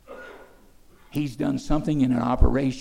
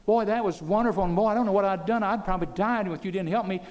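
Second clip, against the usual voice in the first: grateful patient; 8 semitones higher than usual. Acted. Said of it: "you would say".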